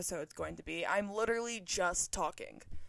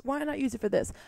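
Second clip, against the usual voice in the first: louder, higher and decided; emphatic repeat; 4 semitones higher, 4 dB louder, faster than usual. Real, not acted. To listeners about the cheap mic, decided and louder. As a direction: say it again like you mean it.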